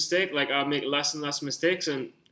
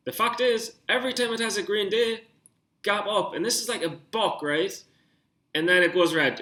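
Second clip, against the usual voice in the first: pumped, can't contain it; amped up; 4 semitones higher than usual. Real, not acted. Walking viewers through the chart, really amped up. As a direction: pitch up high, fast and eager. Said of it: "I'm just amped up".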